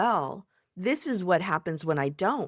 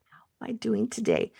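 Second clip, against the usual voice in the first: whisper; 3 semitones higher, faster than usual. Retold or imitated. Whispered self question.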